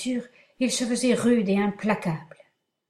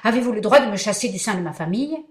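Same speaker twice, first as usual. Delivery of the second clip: louder, indignant demand; furious outburst; 4 dB louder, faster than usual. Acted. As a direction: hurl it back in fury. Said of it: "m'écriai-je transporté de fureur".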